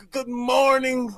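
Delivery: slow, drawn-out mock good morning; mock greeting. Friends mocking the mayor's greeting, slow and drawn out. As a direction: imitate her stiff greeting, drawn out. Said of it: "She be like".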